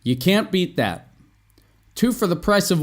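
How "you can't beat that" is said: YOU CAN'T BEAT THAT with a final fall; falling intonation. Shown as a demonstration. Teacher has learners follow along, falling tune. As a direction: let THAT drop as a statement. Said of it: "I mean intonation".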